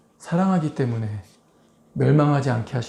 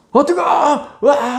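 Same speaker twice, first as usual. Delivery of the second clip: high, loud scalded cry; mock pained yell; 10 semitones higher, 4 dB louder than usual. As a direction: yelp like hot water hit you. Patient scalded by boiling water. (높고 크게 데인 비명 흉내)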